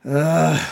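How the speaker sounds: weary groaning sigh; bugbear's sigh. Acted. Captive bugbear giving up, weary sigh. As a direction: sigh it out heavily. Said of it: "he sighs".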